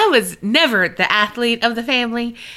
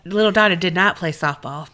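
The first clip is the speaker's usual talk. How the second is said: laughing. Real, not acted. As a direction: laugh at your own mishap. Laughing at her own story.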